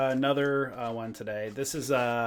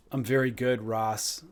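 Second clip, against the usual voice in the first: lightly voiced politician impression; a hint of a Biden voice, softening at the end; understated Biden impersonation; Joe Biden; 4 semitones lower, 3 dB quieter than usual. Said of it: "Joe Biden".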